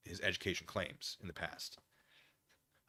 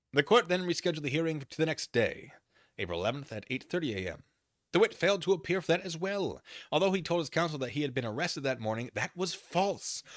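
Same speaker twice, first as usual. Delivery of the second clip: brisk, louder reading-out voice for the court filing; reading a document aloud; 7 semitones higher, 7 dB louder than usual. Acted. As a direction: read the filing out to the viewers.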